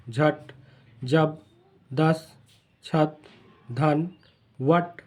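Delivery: each word read whole, no break inside; fluent word reading. Shown as a demonstration. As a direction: read the words straight off, smoothly. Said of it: "और मतन कैसे पढ़ते हैं".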